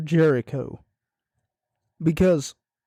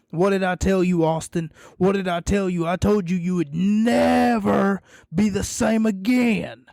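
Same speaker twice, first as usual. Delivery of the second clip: imitating McMahon; 3 semitones higher than usual. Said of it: "that's what McMahon basically drives home".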